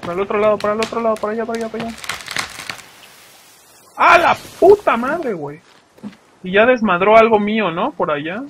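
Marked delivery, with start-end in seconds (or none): 4.0-5.6 high, loud startled curse; startled outburst. Real, not acted. Gamer yelling at his stream when a mob attacks, startled. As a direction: yelp it out as something jumps you. Sudden scare in game.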